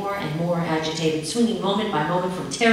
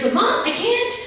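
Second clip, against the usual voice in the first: put-on louder, rising into a child's wail; bursting into tears; 5 dB louder than usual. A narrator's reading. Scared child breaking down to mother, rising tearful wail. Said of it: "I burst into tears".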